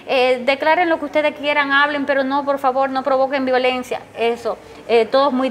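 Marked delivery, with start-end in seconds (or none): 0.1-4.0 put-on raised, pleading call to young protesters; pleading with the youths. Mother calling to marching youths, pleading. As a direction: beg them, a little higher and urgent. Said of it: "y yo le decía".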